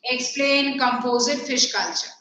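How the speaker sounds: classroom dictation. Acted. Dictates the question for writing.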